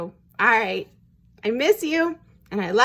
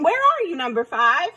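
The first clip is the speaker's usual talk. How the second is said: high, louder call, easing down at the end; 5 semitones higher, 4 dB louder than usual. A narrator's reading. Mother duck seeks her lost duckling, calling out. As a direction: call out for a missing little one. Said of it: "She was calling".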